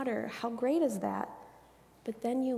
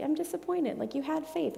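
disappointed; 6 semitones higher than usual. Acted. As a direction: mildly let down, pitched higher. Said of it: "like, disappointed with us".

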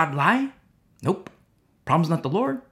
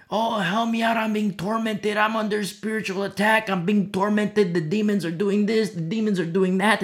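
pleading complaint; 3 semitones higher than usual. Retold or imitated. Mimics tormented Christians pleading for help.

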